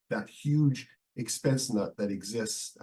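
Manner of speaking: hoarse voice from a head cold; rough, worn-out voice; losing voice. Real, not acted. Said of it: "I'm kinda losing my voice".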